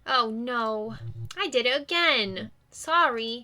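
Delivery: lightly voiced sheepish dog; a hint of a dog embarrassed by barking; mildly rueful talking dog; apologetic dog.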